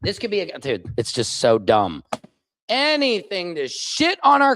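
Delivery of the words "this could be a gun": hushed mock conspiracy. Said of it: "this is what they're doing on Fox News".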